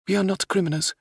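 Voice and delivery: heated, high protest from the princess; hotly. Acted. Princess denies being a criminal, hotly. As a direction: bristle back at the accusation. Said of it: "she said hotly".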